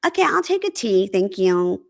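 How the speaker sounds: sing-song polite thanks to a waiter; politely declining, in mild mimicry; polite diner. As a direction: imitate an over-polite restaurant customer. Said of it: "Very polite".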